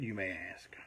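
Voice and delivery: hushed rhetorical whisper; whispered aside. Real, not acted.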